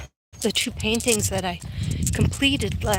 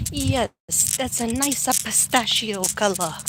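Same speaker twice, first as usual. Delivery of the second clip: lightly hammed-up Italian accent; playful touch of an Italian accent; mock Italian accent; slower than usual. Vlogger joking to viewers about the pistachio color, mock Italian accent. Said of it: "That's my Italian accent".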